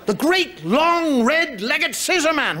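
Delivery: slow, drawn out and ominous; spooky slow nursery threat; slow spooky storyteller. Pretend. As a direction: savour each word like a scary tale. Spooky naming of bogeyman figure.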